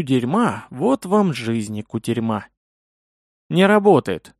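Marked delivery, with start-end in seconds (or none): 3.5-4.3 bewildered. Acted. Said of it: "растерянно бросила Зайри".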